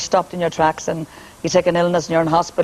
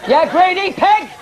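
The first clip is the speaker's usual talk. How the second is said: mock sneer at a spouse, higher and slower; contemptuous husband; 10 semitones higher, slower than usual. Singer mimicking a husband twenty years on, mock scornful. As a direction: spit the insult like a bored husband. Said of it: "the animals get bigger".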